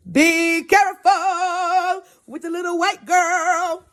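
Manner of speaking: slow, high sing-song call; teasing brother. Retold or imitated. Brother warning about the little girl, high sing-song. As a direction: call it out loud in a drawn-out mock warning.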